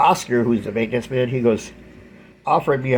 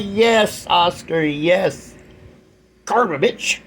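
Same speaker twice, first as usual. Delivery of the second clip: high, gleeful cheer of payback; gloating triumph; 5 semitones higher, much slower than usual. Retold or imitated. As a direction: savor the karma, cheering. Gloating at karma.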